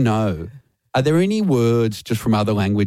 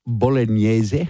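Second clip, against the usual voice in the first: mock Italian flourish on the dish name; hammed-up Italian pronunciation of bolognese; put-on Italian accent; much slower than usual. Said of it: "will slip in the accent".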